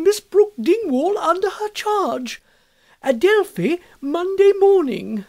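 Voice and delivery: high, ringing read-out building to a loud peak; great triumph. A narrator's reading. Amelia reads the MP's note to the schoolroom, great triumph. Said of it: "with an air of great triumph".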